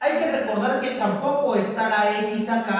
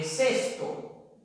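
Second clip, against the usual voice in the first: teacher spelling aloud cesto slowly; slow example word; 3 semitones higher, 6 dB quieter than usual. Shown as a demonstration. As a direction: draw out cesto slowly, each sound clear. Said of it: "la palabra".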